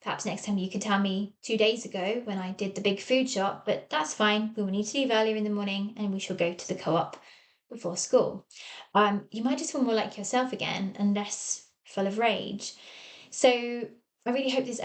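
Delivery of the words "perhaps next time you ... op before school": calm parent. Pretend. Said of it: "You just calmly say".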